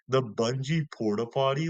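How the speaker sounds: puzzled rising question in a put-on voice; Sami Zayn impression. Fan replaying Sami Zayn's funny line in a put-on voice. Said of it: "that was funny when he was like".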